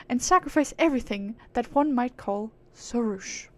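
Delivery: lofty aristocratic British; British accent. Acted. Proud being musing on humans, lofty British accent. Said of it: "give her a British accent".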